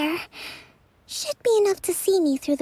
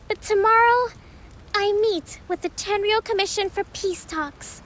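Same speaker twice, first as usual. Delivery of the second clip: formal speech; 2 semitones higher than usual. Acted. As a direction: address the troops with resolve. Kokomi gives victory feast speech.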